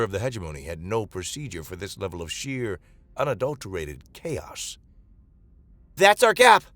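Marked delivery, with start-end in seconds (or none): 5.9-6.6 roaring battle call, much higher and louder. Acted. Captain Mara roaring at her crew to charge. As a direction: bellow it to seize the opening. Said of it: "Mara roared".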